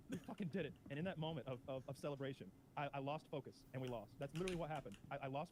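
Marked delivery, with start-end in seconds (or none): 0.1-0.7 triumphant. Real, not acted. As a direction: let We fucking did it burst out in victory.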